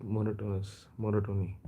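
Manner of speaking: Monotonous with stress on the first syllable, monotony the same; MO-no-to-nous, MO-no-to-ny; Indian-style monotonous. Shown as a demonstration. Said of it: "that's how we pronounce it".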